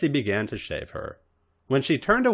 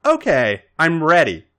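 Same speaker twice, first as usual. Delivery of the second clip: higher, louder, bright call; bright and eager; 7 semitones higher, 8 dB louder than usual. Acted. Robin calling from the bathroom, bright and eager. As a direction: call out brightly through the door. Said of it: "she heard a bright".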